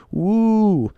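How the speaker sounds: high excited whoop of the crowd; imitating a hyped crowd's whoop; mock fan cheer. Mimics excited fans at announcement.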